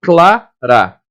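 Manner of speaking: clara said clearly as one syllable cluster cla-ra; teacher showing clara; syllable demo. Shown as a demonstration. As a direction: spell out clara slowly for the class. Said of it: "Ó".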